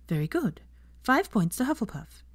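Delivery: a professor ending her lesson, lightly voiced teacher. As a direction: speak up to the class like a teacher. Teacher addresses her class.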